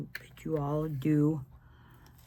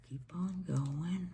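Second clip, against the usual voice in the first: whisper; 3 semitones higher, 5 dB quieter, slower than usual. Real, not acted. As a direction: Keep on going whispered softly, no voice. Repeated instruction, then whispered.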